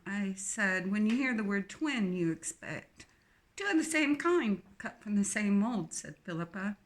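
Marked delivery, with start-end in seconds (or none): 0.9-5.9 put-on strong English accent. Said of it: "her English accent strong".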